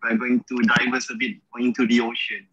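choppy connection audio; radio breaking up. Real, not acted. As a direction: voice cutting in and out. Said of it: "your sound is like, uh, breaking up a bit".

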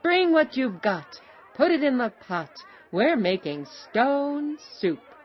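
high, loud storyteller's call; rallying shout. A narrator's reading. Travelers urging the potato owner to add it, shouting. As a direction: call out high, stretching the final line. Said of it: "shouted the travelers".

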